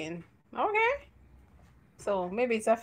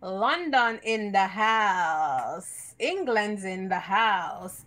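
hype announcer; 4 dB louder, much slower than usual. Acted.

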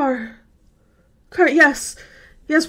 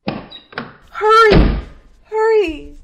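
frantic shout; 11 semitones lower, 3 dB quieter, slower than usual. Acted. Frightened girl shouting at the sheriff to hurry. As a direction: shout it, begging.

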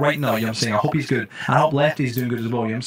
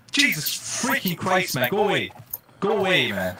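startled, exasperated outburst; 6 semitones higher than usual. Real, not acted. Streamer startled by something in the game, exasperated.

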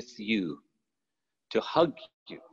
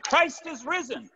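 imitated shout; 14 semitones higher than usual. Pastor escalating the Easter greeting to his church, imitated high shout. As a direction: imitate a shouted proclamation, pitch way up. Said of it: "And he shouted".

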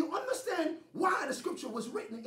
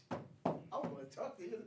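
timid plea; 6 semitones lower, 11 dB quieter, faster than usual. Retold or imitated.

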